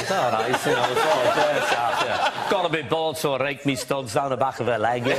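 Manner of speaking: easy-going Scouse footballer voice; Liverpool accent. Acted. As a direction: shrug it off in thick Scouse. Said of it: "Can you do the Liverpool accent?".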